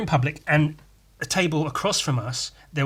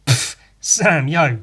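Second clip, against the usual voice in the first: bro-ish telling off; 5 dB louder than usual. Retold or imitated. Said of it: "it wasn't like".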